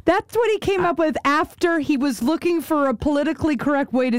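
high-pitched, laughing disbelief; incredulous amusement. Real, not acted. Host mocking the commentator's chosen word, high and amused. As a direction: say it through rising laughter.

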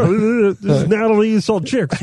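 high put-on girly voice; girl voice. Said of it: "That's your girl voice?".

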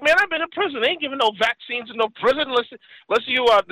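indignant friend. Retold or imitated. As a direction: imitate his outrage.

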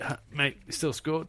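winded. Retold or imitated. Retelling a tackle, lightly imitating being winded. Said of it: "in my winded state".

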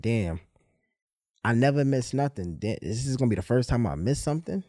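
low, soft, let-down muttering to himself; muttered disappointment. Retold or imitated. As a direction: grumble it quietly like the night is ruined. Retold sulking in the cab.

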